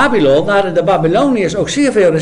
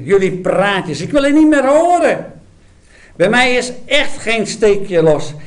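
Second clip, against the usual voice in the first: exasperated outburst; 3 semitones higher than usual. Acted. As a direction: burst out in irritation. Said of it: "spat bijna uit elkaar van ergernis".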